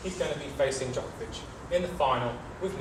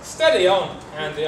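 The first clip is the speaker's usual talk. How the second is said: firm; 6 dB louder than usual. Acted. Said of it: "I said".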